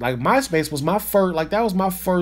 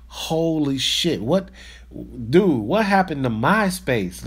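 amazed; 2 semitones lower, slower than usual. Real, not acted. Shocked at MySpace memory.

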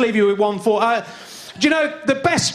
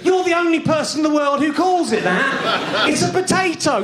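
higher-pitched exasperated correction; indignant; 4 semitones higher than usual. Acted. Comic telling off a mate over his potato, indignant. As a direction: put him right, indignant and high.

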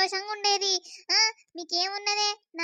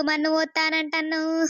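crying. Acted. Accused woman breaks down.

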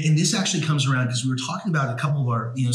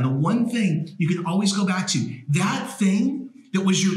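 raised, fired-up preaching delivery; 4 semitones higher than usual. Real, not acted. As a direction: preach it like a pulpit sermon to the converted. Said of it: "'Cause you're preaching".

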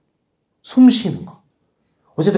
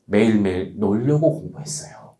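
low, slow, softer student answer; student's confession; 6 semitones lower, 5 dB quieter than usual. Retold or imitated. Top student revealing how she lasted two years, confiding slowly. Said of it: "이 여학생 이 년 동안 어떻게 버텼는지 알아?".

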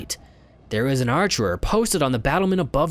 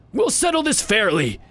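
put-on old beggar voice; 7 semitones higher than usual.

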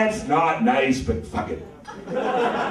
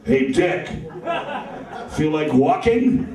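Alfred the butler; slower than usual. Acted. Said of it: "he did sound like the butler from Batman".

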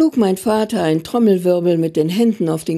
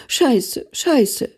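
higher-pitched, lightly sobbed curse, falling each time; mild sobbing; 4 semitones higher than usual. A narrator's reading. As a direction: narrate a sobbing child's swearing, understated. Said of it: "schluchzte er".

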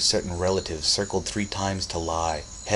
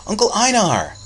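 high, loud joyful shout; excited cry; 8 dB louder than usual. A narrator's reading. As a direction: cry out to a beloved uncle arriving. Boy greets his flying uncle.

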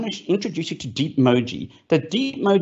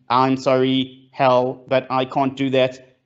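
monotone AI reply; 2 semitones lower, slower than usual. Retold or imitated. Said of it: "respond to you in a monotone".

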